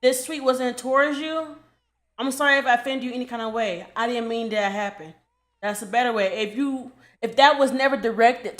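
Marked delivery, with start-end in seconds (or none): 0.0-5.1 nice apology demo. Shown as a demonstration. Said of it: "Your comment be like".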